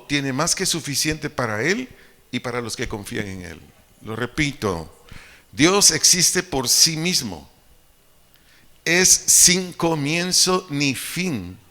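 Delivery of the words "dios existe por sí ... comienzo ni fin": slow, loud, weighted phrases; emphatic declaration. Real, not acted. Preacher repeating the core truth to the congregation, slow and emphatic. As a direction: drive each word home, slow and forceful.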